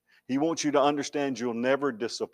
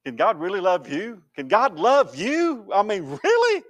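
taunting tempter; 4 semitones higher, 3 dB louder than usual. Retold or imitated. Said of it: "Satan will whisper".

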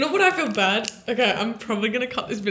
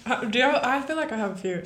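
mouth full; 3 dB quieter, faster than usual. Real, not acted. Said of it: "Sorry, I'm eating".

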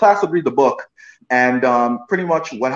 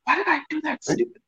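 high, fast, breathy-free squeal of embarrassment; self-mocking high squeak; 6 dB quieter, faster than usual. Boy scolding himself after his weird accent, high squeak. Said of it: "I just remember saying".

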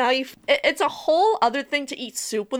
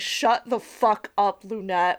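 slow deadpan; slower than usual. Retold or imitated. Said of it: "I could literally hear Molly saying".

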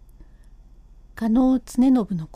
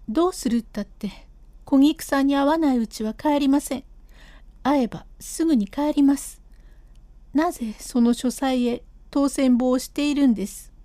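lightly raised voice of an insistent wife; stubborn wife; 2 semitones higher than usual. Acted. Wife refusing to leave without seeing Kogiku, lightly raised stubborn voice. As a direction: dig in your heels and refuse to leave.

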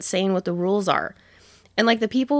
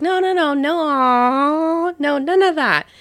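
much higher, louder protest waving off pity; Kevin Hart protesting; 7 semitones higher, 4 dB louder, slower than usual. Retold or imitated. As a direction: brush off the crowd's sympathy, urgently.

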